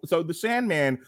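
ordinary talk

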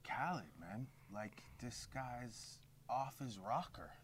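slow, weary voice with a lisp; lisping impression of a rapper. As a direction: play a tired star with a lisp. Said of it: "where did this lisp come from".

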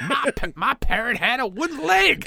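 high voice breaking into laughter; laughing pirate line. Pretend. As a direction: laugh through the pirate joke.

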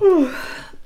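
big yawn. Real, not acted.

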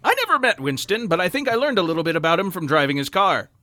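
sentimental documentary voiceover; wistful narration. Acted. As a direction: read it like nostalgic ad copy. Reads a car ad as narration.

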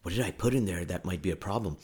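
soft, quick worried mumble; half-voiced panicky muttering; panicked mutter. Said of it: "I'm like".

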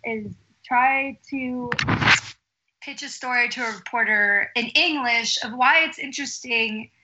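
muffled, covered microphone; talking into a covered mic; finger over the mic. Real, not acted. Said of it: "I think you're covering your microphone".

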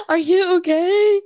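high, slow and gentle, asking if she is okay; concerned friend. Retold or imitated. Friend handing her his phone, asking tenderly if she's okay. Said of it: "He's like".

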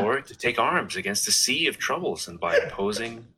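put-on American-guy recital; American accent. Shown as a demonstration. Co-host reciting the soliloquy on request, American accent. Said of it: "do Hamlet as an American guy".

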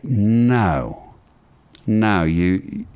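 drawn-out no in attempted Australian; rough, hammy Australian accent; bad Australian accent. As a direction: imitate an Australian saying no, badly. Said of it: "I do a horrible, uh, Australian accent".

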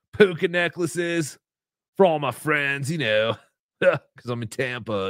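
lazy surfer-dude impression; put-on slacker voice with dopey chuckles. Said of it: "Chad does not talk like a surfer".

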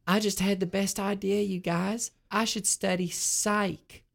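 mock-eager revelation; exclaimed. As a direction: announce it like a great idea. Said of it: "a glowing Calendar exclaimed".

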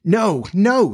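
high-pitched pleading wail, lightly acted; piteous cry. A narrator's reading. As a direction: plead pitifully, pitch leaping up. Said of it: "they cried so piteously".

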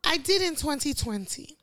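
put-on reading in a light posh Nigerian accent. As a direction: put on a hint of posh Naija English. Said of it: "That's your posh Naija".

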